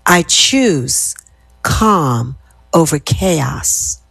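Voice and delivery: slow affirmation. Shown as a demonstration. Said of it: "So repeat after me".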